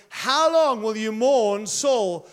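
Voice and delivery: God drawing out the question to Samuel. Acted. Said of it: "God said to Samuel".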